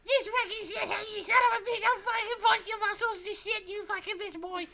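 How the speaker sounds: very high, loud hammed-up Irish yelling; shrieking Irish brawler bit; mock Irish rage. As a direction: scream threats as a cartoon Irish thug.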